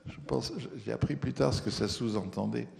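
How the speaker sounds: ordinary delivery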